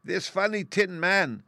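high, slow tiny regal voice; squeaky mouse queen. A narrator's reading. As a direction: speak as a little queen. Mouse queen answers her mice.

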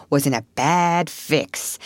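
slow, weighted retelling; drawn-out gossip. Retold or imitated. Otter retells the rabbit's burrow gossip, drawn out. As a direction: stretch the words out slowly.

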